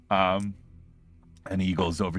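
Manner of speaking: normal talking voice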